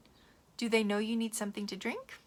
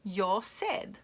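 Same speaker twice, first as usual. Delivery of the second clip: put-on whiny child; 7 dB louder, much slower than usual. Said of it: "And you say".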